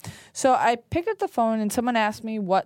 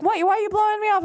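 mock indignant caller; 9 semitones higher, much faster than usual. Caller protests, retold.

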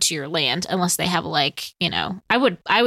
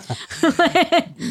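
laugh; 9 semitones higher than usual. Real, not acted. Amused at the trespasser.

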